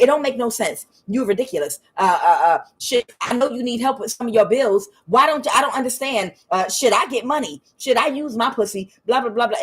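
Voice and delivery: mock nagging trailing into blahs; exasperated friend. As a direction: rant like a pushy, baffled friend. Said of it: "But she was like".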